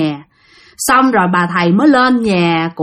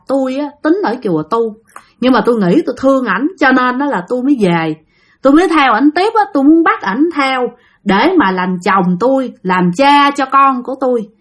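lightly raised, quick ghost voice pleading its love; a spirit explaining why it came back, a touch higher; 4 semitones higher than usual. Retold or imitated. Ghost answers the exorcist through the husband, a bit higher and quicker.

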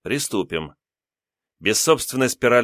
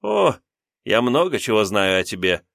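sinister smirk. Acted. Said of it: "зловеще ухмыльнулся я".

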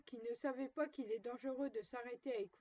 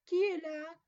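wolf's gruff voice; 4 semitones higher, 9 dB louder than usual. A narrator's reading. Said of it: "la grosse voix du loup".

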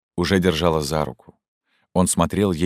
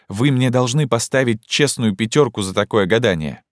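put-on agitated young woman; 6 semitones higher than usual. Zhenya confronts Fyodor Ivanovich about the order, urgently. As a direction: voice raised higher, urgent and pleading.

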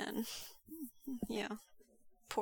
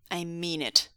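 understated, serious threat; warning. Acted. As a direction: warn them off firmly. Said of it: "Wei Wuxian warned".

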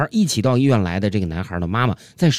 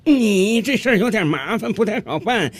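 displeased; 7 semitones higher than usual. Acted. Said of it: "心理医生很不高兴".

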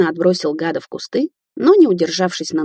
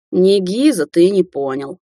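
sadly; slower than usual. Acted. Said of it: "печально ответила бабуля".

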